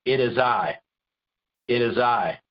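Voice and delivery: low, plain, assured; understated calm reply; calm and simple. Retold or imitated. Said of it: "He just said".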